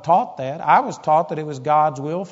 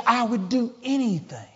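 higher, heated protest; angry father; 6 semitones higher, 4 dB quieter than usual. Retold or imitated. Father defending his love for his daughter, heated. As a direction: insist hotly you'd do anything. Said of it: "He got mad".

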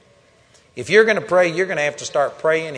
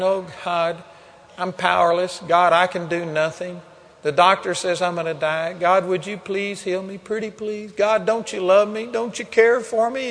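mock begging prayer. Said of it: "crying and begging and pleading".

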